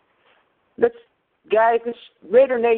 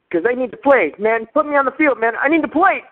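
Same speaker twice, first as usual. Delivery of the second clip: mock desperate pleading; 4 semitones higher than usual. Caller posing as player pleads.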